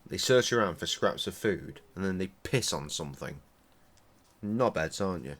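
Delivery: usual speaking voice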